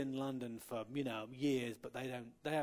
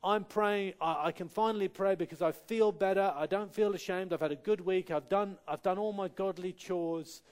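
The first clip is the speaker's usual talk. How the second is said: higher, louder, smug listing of good deeds; a self-righteous believer, lightly voiced; mock self-satisfied believer; 3 semitones higher, 5 dB louder than usual. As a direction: mimic someone proud of earning prayer. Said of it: "it's not".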